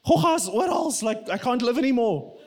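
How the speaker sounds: mock panic. Preacher imitating someone newly horrified by bacteria, mock panic. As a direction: act out being mildly horrified by it all. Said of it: "It's like everything is like".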